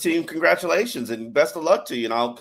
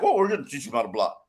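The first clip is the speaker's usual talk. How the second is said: mocking the team; 4 semitones lower, much faster than usual. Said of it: "then you're like".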